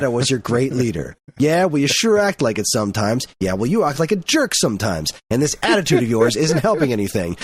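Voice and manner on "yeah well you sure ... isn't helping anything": playful squabble, trading jabs; mock bickering. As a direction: act out a TV couple's spat. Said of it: "it's like moonlighting".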